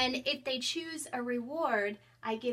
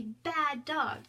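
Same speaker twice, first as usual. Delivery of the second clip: mock scolding; 4 semitones higher than usual. Shown as a demonstration. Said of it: "the dog gives me the star and I say".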